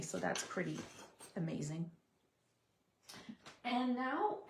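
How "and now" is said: throat catching mid-sentence; choking. Real, not acted. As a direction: voice caught, choking a bit. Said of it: "I'm choking here".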